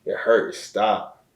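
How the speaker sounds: imitated plea, slow and mounting; retold desperate prayer. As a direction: beg God for relief, a touch strained. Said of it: "I'm praying".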